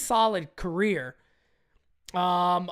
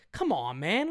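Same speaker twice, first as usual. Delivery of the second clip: Joe Biden; 4 semitones lower, 5 dB quieter than usual. Retold or imitated. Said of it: "did a little Joe Biden right there".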